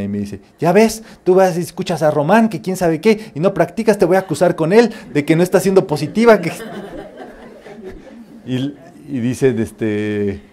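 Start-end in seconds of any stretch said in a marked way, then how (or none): 0.6-6.5 higher, mock-scolding daughter. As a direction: tell mom off, half-joking. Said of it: "mi hija me regaña".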